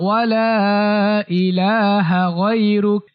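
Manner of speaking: smooth, measured Arabic chant with held vowels; steady-toned devotional recitation; full sana recitation. Shown as a demonstration. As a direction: recite the whole prayer in connected, elongated phrases. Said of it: "আমি সম্পূর্ণটুকু বলছি".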